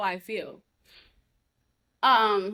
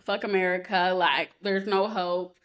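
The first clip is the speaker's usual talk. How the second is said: mild resignation; 2 semitones lower than usual. Retold or imitated. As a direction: retell giving up, slowing at the end. Song's mood retold as hopeless.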